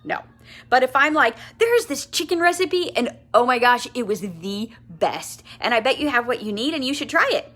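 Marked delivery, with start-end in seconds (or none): 1.6-7.5 enthusiastic. Shown as a demonstration. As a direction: gush about it to a friend. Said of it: "See the difference?".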